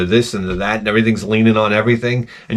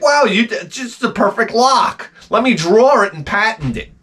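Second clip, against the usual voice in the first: sarcastic admiration; 10 semitones higher than usual. Retold or imitated. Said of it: "It's like".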